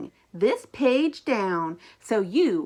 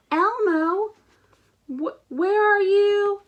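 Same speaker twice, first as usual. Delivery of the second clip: calling out; 8 semitones higher than usual. Acted. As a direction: call out for him across the room. Grover calls for missing Elmo.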